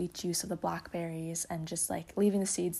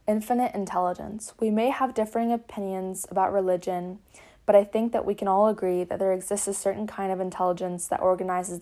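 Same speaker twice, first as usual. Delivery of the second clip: reading aloud; 3 dB louder than usual. Acted.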